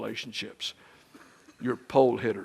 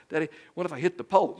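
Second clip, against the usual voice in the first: put-on quick, higher child's voice; a child fretting to her daddy; worried little girl; 4 semitones higher, faster than usual. Daughter voiced in story.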